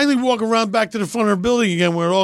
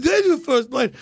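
Stallone. Acted. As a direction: drag it out like the action hero. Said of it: "five to seven minute monologue".

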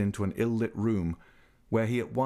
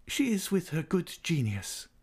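calmly; 8 semitones higher than usual. A narrator's reading. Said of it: "the old lady replied calmly".

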